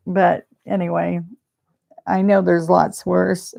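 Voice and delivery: tearing up while telling a bad day; close to tears. Real, not acted. Telling viewers about the scary MRI, near tears. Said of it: "you're gonna make me cry".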